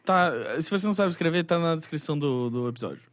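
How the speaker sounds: sour. Real, not acted. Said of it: "Meu Deus, que azedo".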